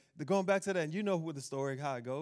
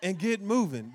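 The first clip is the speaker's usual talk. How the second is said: playful title; 4 dB louder, slower than usual. Shown as a demonstration. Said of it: "The title is".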